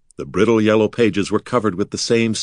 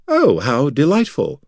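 higher, drawn-out cry of delight; happy exclamation; 6 semitones higher than usual. A narrator's reading. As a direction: exclaim with delight, stretching the words. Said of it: "Corin exclaimed happily".

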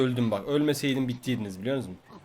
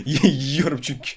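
laughing; much slower than usual. Real, not acted. Laughing about eating enemies.

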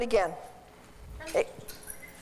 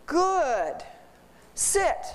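"sit" sprong omhoog; Good, sit with a leap up on sit; 4 semitones higher than usual. Shown as a demonstration. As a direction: hear "Good, sit" as one rising call. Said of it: "What they're hearing is".

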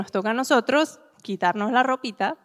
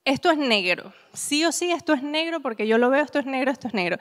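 firm insistence; 3 semitones higher than usual. Acted. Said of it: "ustedes creen firmemente que algo es".

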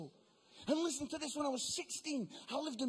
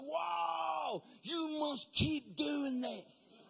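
higher, slow, impressed minister; mock gushing minister; 4 semitones higher, much slower than usual. Minister gushes over Mark's show, slow mock praise. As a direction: draw out the praise, lightly gushing.

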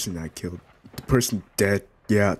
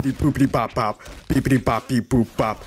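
chirpy higher beep-boop; robot beeps; 4 semitones higher, 4 dB louder than usual. Pretend. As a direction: bounce through the beeps like a toy robot. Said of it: "imitating robot beeps".

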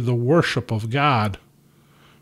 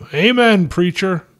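raised, higher-pitched call of approval; yelled out; 6 semitones higher than usual. A narrator's reading. Carl calling from the lobby to the pastor, yelled out. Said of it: "Carl yelled out".

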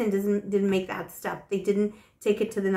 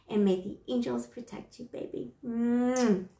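ordinary talk, nothing marked

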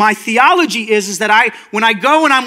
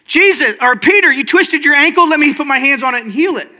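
higher-pitched parody of ministry; mock eager healer; 4 semitones higher than usual. Jesus supposedly offering Peter instant deliverance, mock-eager. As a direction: jump in to fix it, pitched up.

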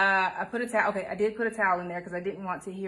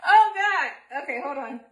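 laughing; 3 semitones higher, 6 dB louder than usual. Real, not acted. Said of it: "stop laughing".

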